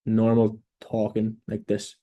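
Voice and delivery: slow, steady and calm, every word clear; slow right down and sound sure of yourself; slow confident talking. Shown as a demonstration. Coach showing job seekers how slowly to talk in intro videos, slow and steady. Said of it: "speak with confidence".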